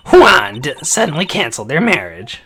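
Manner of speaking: name honked out loudly; Old Bag. Acted. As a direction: honk JUAN like an old lady. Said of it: "in Old Beg's voice".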